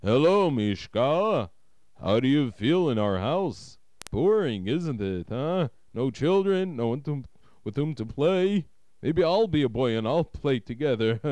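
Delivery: lively, lightly voiced friendly uncle with swooping pitch; jovial welcome ending in a chuckle. A narrator's reading. Uncle greets the new boy in his house, friendly. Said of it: "approached him with friendliness".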